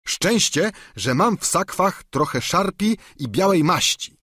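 a hint of a simple, chatty squire; Sancho's voice. A narrator's reading. Sługa Sancho tłumaczy się panu, lekko wyżej i gorliwie.

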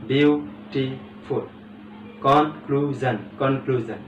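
বিউটিফুল stretched out very slowly, syllable by syllable; slow syllable demo. Shown as a demonstration. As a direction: draw out বিউটিফুল slowly so each syllable is heard. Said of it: "যেমন বিউটিফুল". (বিউটিফুল ধীরে ধীরে প্রতিটি syllable আলাদা করে)

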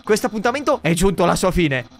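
lightly voiced boastful skeleton; proud, theatrical date talk; Papyrus voice. Streamer voicing Papyrus on the date, boastful.

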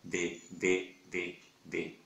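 B said short and quick, lips closing briefly; short crisp B. Shown as a demonstration. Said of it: "la B corta es". (B corta, breve)

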